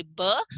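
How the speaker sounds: "ब" alone, as a lip-closed b; isolated "ब", a clear b sound. Shown as a demonstration. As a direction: close the lips and release "ब" as ba. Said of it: "इसका उच्चारण सही होना चाहिए".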